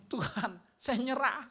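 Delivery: slow, resigned plea; a slow weary prayer of surrender; giving up. Retold or imitated. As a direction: let the words sag as you surrender. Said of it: "Saya sampai bilang gini".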